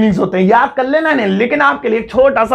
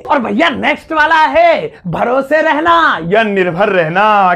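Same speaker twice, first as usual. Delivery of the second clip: announcing the next word; slower than usual. Shown as a demonstration. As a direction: present the next word like a show host. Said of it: "announces next word".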